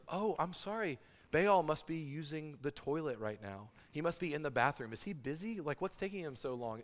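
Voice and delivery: mock-apologetic, lightly taunting; sarcastic. Elijah taunting the prophets of Baal, lightly sarcastic. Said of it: "he gets really sarcastic".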